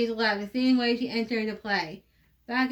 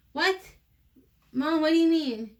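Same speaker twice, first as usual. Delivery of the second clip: surprised; 5 semitones higher than usual. Acted. Annie surprised by mother.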